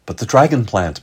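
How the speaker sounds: high, loud, frightened plea; terrified youngster pleading with their rescuer. A narrator's reading. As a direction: beg with rising alarm. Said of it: "pleaded Kurok".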